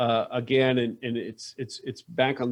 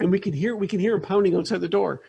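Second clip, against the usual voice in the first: flustered Beth; 5 semitones higher, faster than usual. Acted. Game master plays flustered Beth.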